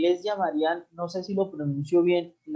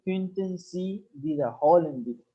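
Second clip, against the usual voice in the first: slow formal demo; slower than usual. Shown as a demonstration. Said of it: "vamos a aprender una forma muy, muy formal".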